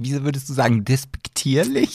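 usual speaking voice

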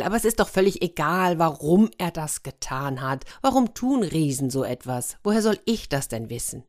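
a quick start, mildly impatient; quickly. Acted. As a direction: brush the question aside hurriedly. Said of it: "Diese aber sagte schnell". (schnell, leicht ungeduldig)

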